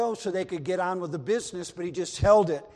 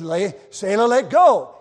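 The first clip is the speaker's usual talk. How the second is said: loud command; 10 dB louder than usual. Acted. Captain ordering again.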